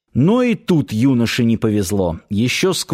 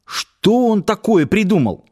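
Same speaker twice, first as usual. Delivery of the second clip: higher-pitched, hesitant youth; puzzled youth; 6 semitones higher than usual. A narrator's reading. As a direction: correct yourself and ask, pitched up. Youth hastily corrects himself, asking.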